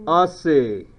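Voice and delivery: slow mock Australian, ATE like "ite"; playful, slowed Australian vowels; Australian accent. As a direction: draw it out in a joking Aussie accent. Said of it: "if you're Australian".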